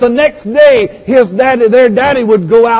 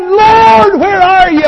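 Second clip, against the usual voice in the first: high, pleading shout; crying out; 9 semitones higher, 5 dB louder, slower than usual. Acted. Preacher as Job searching for the Lord, crying out high. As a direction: call up to heaven at a high pitch. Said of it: "Job cried".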